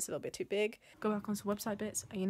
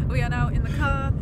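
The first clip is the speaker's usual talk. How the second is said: laughing; 3 semitones higher, 12 dB louder than usual. Real, not acted. Loud laughing in the car.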